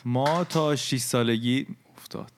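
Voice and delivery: slow, rounded Isfahani vowels; Isfahani accent. Shown as a demonstration. Guest starting his childhood story, in a light Isfahani accent.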